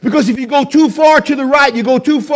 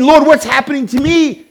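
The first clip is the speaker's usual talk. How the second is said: raised, higher-pitched appeal to the Lord; pleading to God; 4 semitones higher than usual. Acted. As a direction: call it up to God. Acting out people crying to God.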